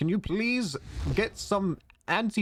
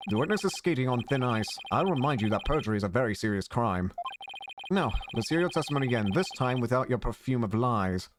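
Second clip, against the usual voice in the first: low, stern courtroom judge; 3 semitones lower than usual. Acted. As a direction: lower the voice, scold the witness. Judge voiced in game.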